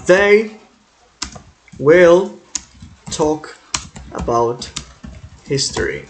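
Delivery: slow dictation. Shown as a demonstration. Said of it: "Então vamos pegar aqui".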